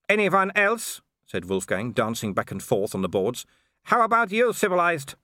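high, grinning menace; sneering brute enjoying the threat; gleeful werewolf villain. A narrator's reading. Wolfgang challenges the onlookers.

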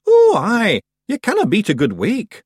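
loud, high Scottish pixie; rowdy wee Scottish Feegle. A narrator's reading. Feegle enthusing.

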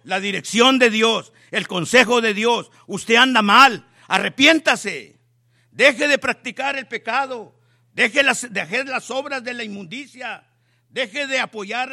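loud, urgent call to repent; preaching at full force. Real, not acted. Preacher calling sinners to repent, booming. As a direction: thunder it at the sinners.

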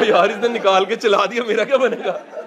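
laughing mock panic. Retelling own panic, laughing.

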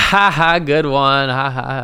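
slow, fake ha-ha laugh; drawn-out mock chuckle; playing along. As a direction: laugh it off as a joke. Plays along with supposed joke.

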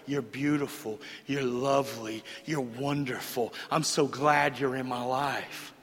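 gently flattering compliments; tender flattery. Retold or imitated. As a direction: croon it like a man wooing her. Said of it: "would tell her".

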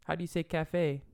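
unvoiced whisper question. Real, not acted. Asking quietly about Spanish word.

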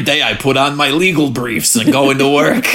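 lightly voiced TV lawyer dad; a hint of a put-on lawyer voice; Sandy Cohen. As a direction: do a mild comic lawyer impression. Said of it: "getting excellent at Sandy voice".

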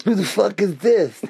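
imitating Tom. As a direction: bark it like the confused Tom. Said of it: "Russ loves when I imitate Tom".

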